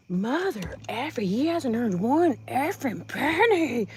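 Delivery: a hammed-up slow shout; mock angry rant. Mocking Heather cursing about money, mock shouted. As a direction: mimic her cursing rant, half-shouted. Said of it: "she's like".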